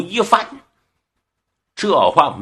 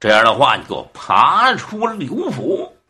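called-out order; 2 semitones lower than usual. Acted. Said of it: "胡彦庆喊了一声".

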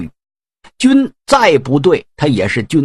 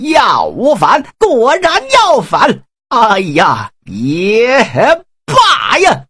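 rising, drawn-out opera wail ending high; operatic lament; 4 semitones higher, slower than usual. Acted. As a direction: cry out like a stage general making up his mind. Huang resolves to rebel, opera-style.

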